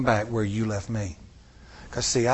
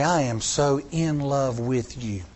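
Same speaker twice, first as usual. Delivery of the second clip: tender; slower than usual. Retold or imitated. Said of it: "something a little bigger wells up".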